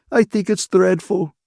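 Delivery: high, loud tearful outburst; sobbing. A narrator's reading. Ferguson breaks down as Catherine holds her, acted sobbing. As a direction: cry it out in distress. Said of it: "Ferguson sobbed".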